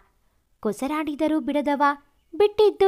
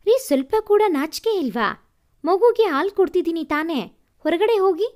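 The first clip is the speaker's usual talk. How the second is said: a touch of a sharp rebuke to her husband; scolding; 3 semitones higher, 4 dB louder than usual. Acted. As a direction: tell him off, mildly cross. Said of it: "ಎಂದು ಗದರಿದಳು". (ಸ್ವಲ್ಪ ಗದರುವ ಧ್ವನಿ)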